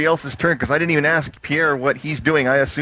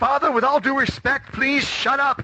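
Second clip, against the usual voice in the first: very high-pitched shouting; 12 semitones higher than usual. Voicing a character driving away from danger: shouting back. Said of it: "She shouts back over her shoulder".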